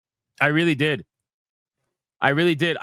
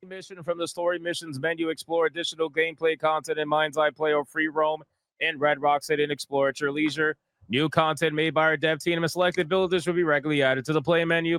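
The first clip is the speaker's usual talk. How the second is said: rushed, quieter dismissive read of screen text; bored reading; 4 dB quieter, faster than usual. Real, not acted. Streamer reads credits text to chat, bored and dismissive. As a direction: rattle the menu text off like it doesn't matter. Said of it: "Blah, blah, blah".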